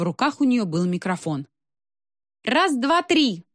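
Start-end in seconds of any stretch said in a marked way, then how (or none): 2.4-3.4 high, ringing count; raised-pitch sound-check call; loud mic test. A narrator's reading. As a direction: count out brightly for a microphone check. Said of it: "сказала она так громко".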